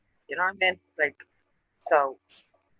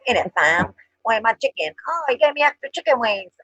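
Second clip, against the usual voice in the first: mock London roadman slang, rising higher at the end; lightly hammed roadman accent; roadman talk; 5 semitones higher than usual. Mimicking a Korean doing roadman slang, mock roadman accent. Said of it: "roadman talk".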